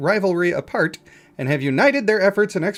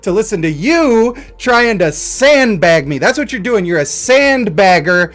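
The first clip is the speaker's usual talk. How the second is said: hammed-up rant, louder and fast; mock argument; 4 dB louder than usual. Streamer ranting at imaginary chatter who doubts his robot, mock anger. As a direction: berate an imaginary heckler in mock fury.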